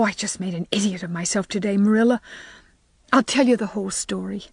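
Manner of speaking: put-on girl confessing, wounded feelings; hurt girl voice. Anne's voice, hurt.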